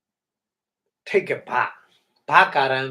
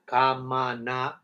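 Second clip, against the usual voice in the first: slow demo word. Shown as a demonstration. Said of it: "from the three syllable word".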